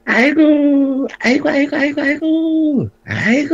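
wailing. Acted. The bride greets her brother-in-law with a wailing aigo. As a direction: wail it, overcome with emotion.

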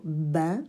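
bain with a firm, distinct b at the start; clear b in bain. Shown as a demonstration. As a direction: say bain carefully, lips fully closed on the b. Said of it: "comme par exemple dans les mots".

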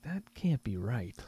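hushed disbelieving whisper. Retold or imitated. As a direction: breathe it out in disbelief. Disbelieving quote in retold moment.

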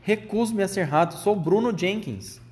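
high, indignant refusal, ending drawn out; berrando. A narrator's reading. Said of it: "berrava o Bruno, pulando feito louco". (berro indignado e agudo)

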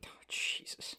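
hushed, voiceless aside; exasperated whisper. Real, not acted. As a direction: whisper it in dismay. Weary reaction to co-host's rant.

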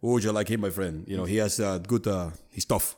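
mock French accent, done half-heartedly. Imitating Rudy Gobert praising him, in a light French accent. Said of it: "With his French accent".

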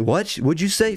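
mock shock. Imagined shocked Australian listener.

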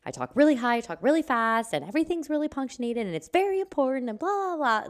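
showing off her own stressed-out manic voice; manic sounding. Retold or imitated. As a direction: rattle it off high and wound-up. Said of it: "but manic sounding".

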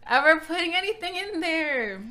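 laughing. Real, not acted. Embarrassed admission, laughing.

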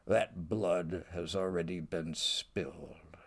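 declaim, then drop to a hush; dramatic verse reading. Acted. Gaunt's reply read aloud.

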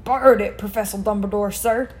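put-on giant with an accidental Southern accent; Southern-tinged giant. Giant answers Professor Dumbledore, Southern-tinged. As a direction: slip slightly into a Southern accent. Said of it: "I don't know why he sounded southern there".

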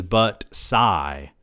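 "sigh" pronounced as a word, no real sigh; sigh read as word. Acted. Narrator pointing out her odd habit, "sigh" spoken out. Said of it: "instead of her sighing, she says".

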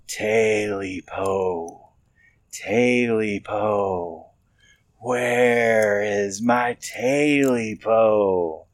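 slow, drawn-out creature wail; eerie creature moan. A narrator's reading. Creature at the window moaning for its tail, slow eerie wail. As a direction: moan it out from outside the walls. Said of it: "it hissed a little louder".

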